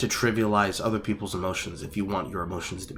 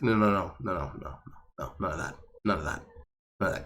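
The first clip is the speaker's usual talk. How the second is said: firm dismissal; 4 semitones lower, 11 dB quieter, faster than usual. Real, not acted. Shutting it down.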